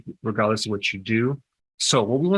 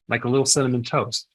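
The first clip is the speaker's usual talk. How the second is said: sarcastic; faster than usual. Pretend. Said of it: "I'm just being sarcastic".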